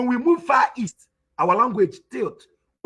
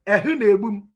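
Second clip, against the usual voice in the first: lightly voiced Udi Igbo; Udi dialect; faster than usual. Shown as a demonstration. Teacher demonstrating to listeners how Udi people talk, Udi dialect. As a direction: say it as Udi speakers would. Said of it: "Udi will say".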